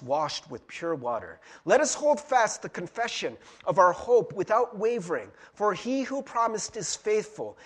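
measured, solemn Bible reading; scripture reading. Acted. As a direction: read the passage like a lector. Reads scripture aloud in service.

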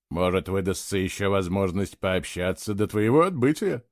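a lightly voiced friendly young man; friendly offer. A narrator's reading. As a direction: ask him kindly to stay and talk. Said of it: "приветливо предложил Герик".

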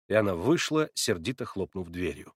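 ordinary delivery

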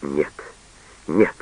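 usual speaking voice

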